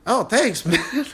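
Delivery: high voice breaking into a laugh; laughing thanks. Retold or imitated. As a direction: thank him through a laugh. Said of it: "I'm like".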